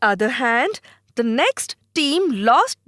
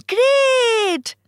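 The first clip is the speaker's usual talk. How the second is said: high, happy cry of relief; a child cheering that the vase is mended; delighted child exclaiming; 12 semitones higher than usual. Acted. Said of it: "he feels happy and says".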